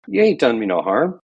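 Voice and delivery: lightly voiced country accent; mock country accent. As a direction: drop into the friend's country accent. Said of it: "what part of the country he's from, from my accent".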